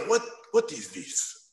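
slow, disdainful teacher voice; slow Hungarian-tinged disgust; disgusted critic. Retold or imitated. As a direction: hold the drawing like it's filthy. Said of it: "and he goes".

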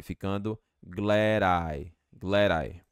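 glad I run together as glad-I, D flapped; linking D to I. Shown as a demonstration. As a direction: join the D into the I. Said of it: "Esse D você pode juntar com I".

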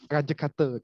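Ranje Kate as "RAN-juh KAH-tuh"; Ranje Kate pronunciation demo. Shown as a demonstration. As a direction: say Ranje Kate the way the lecturer models it.

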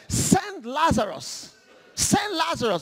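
commanding, used to being obeyed; bossy demand. Acted. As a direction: order it like a boss. Rich man demanding from hell.

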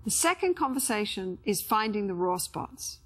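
measured, scripted voice-over read; instructional narration. Acted. Therapist introducing the second conversation's goals to viewers, measured narration. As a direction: narrate clearly with pauses between phrases.

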